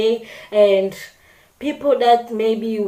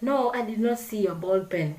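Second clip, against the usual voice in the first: calm, soft and gentle, softer; polite tone; 5 dB quieter than usual. Shown as a demonstration. Answering a classmate's question about the pen, calm polite tone. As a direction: answer kindly like you care. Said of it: "the person who will say it like".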